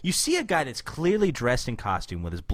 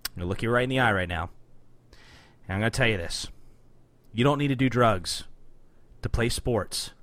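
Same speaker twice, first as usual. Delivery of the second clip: PSA voice; 3 semitones lower than usual. Pretend. Mock anti-drug PSA to Josh.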